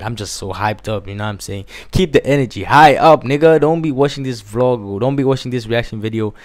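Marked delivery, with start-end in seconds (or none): 1.9-5.0 hype call. Real, not acted. Hyping up the viewers.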